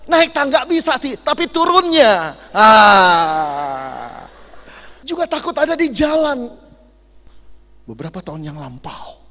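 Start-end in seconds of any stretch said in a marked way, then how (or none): 2.5-4.3 sudden loud pained yelp; pained cry. Retold or imitated. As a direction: yelp like a slipping old man. Old man slips on stairs.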